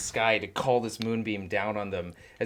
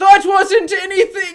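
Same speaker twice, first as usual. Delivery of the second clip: put-on shrill, very high, very loud Irish accent; 15 dB louder than usual. Narrating a tabletop game, the speaker voices a character in an Irish accent. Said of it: "it was an Irish accent".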